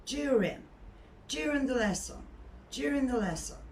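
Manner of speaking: "During" as "jew-rin", g dropped; correct English during. Shown as a demonstration. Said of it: "Sondaki G zaten yok".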